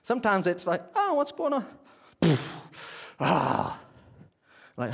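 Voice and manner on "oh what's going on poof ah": high puzzled oh what's going on; confused surprise. Retold or imitated. Preacher voicing his own confusion, high and puzzled. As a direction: sound suddenly thrown and puzzled.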